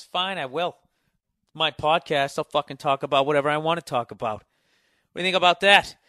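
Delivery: answering his own heckler, rising defiant yell. Acted. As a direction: shout back at the heckler.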